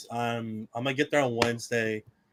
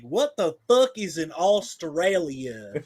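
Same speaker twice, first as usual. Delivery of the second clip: high, slow mock bewilderment; puzzled local; 6 semitones higher, much slower than usual. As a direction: drawl it like a baffled Southern local. Acting locals puzzled by Australia.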